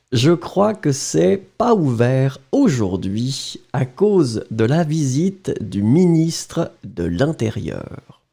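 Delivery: natural reading pace; plain French dictation reading. Shown as a demonstration. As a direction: read the sentence through once. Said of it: "well, don't look at it".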